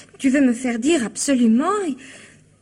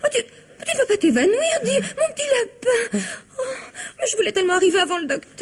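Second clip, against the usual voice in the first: weepy fussing; 5 semitones higher than usual. Acted. Wife fussing over fainting husband.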